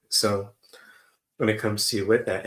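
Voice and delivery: talking while eating; words around a bite of food; mouth full. Real, not acted. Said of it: "talking and eating at the same time".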